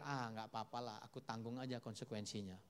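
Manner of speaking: low, soft dismissive aside; offhand shrug-off. Retold or imitated. People shrug off the consequences to themselves, offhand shrug-off. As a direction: imitate someone waving the risk away.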